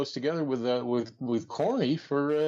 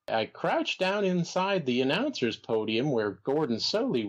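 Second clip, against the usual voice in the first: Jim Barnett impression. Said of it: "sound a little bit more like Droopy Dog".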